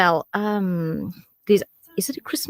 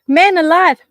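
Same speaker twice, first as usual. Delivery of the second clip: pained exclamation; 7 semitones higher, 7 dB louder than usual. Real, not acted. After chili burn yelps.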